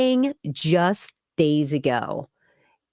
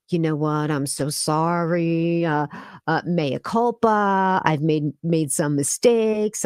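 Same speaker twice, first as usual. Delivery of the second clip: mock apology. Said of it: "Does this sound like somebody who's like".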